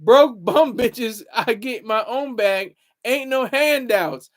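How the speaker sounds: reading out Chelsea's sass, slow and punchy; reading a viewer's comment. Retold or imitated. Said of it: "Chelsea says".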